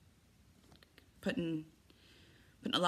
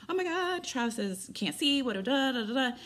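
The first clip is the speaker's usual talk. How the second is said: high, hammed-up panic easing into babble; freaking out; 7 semitones higher than usual. Texting her sister-in-law about the emergency, mock freak-out. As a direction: imitate yourself panicking, starting very high. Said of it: "so I freak out".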